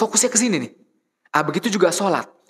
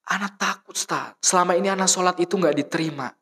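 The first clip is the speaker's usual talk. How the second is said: put-on crying child; 4 semitones higher than usual. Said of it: "Dia nangis senangis-nangisnya".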